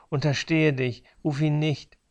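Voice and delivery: high, strained dying command; barked with last strength. Acted. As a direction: force out a desperate order. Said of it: "Mit letzter Kraft herrschte er mich an". (gepresster Befehl mit letzter Kraft)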